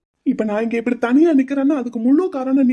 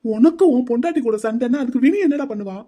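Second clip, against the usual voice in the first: angry retort. Acted. Groom rages about sister Vini.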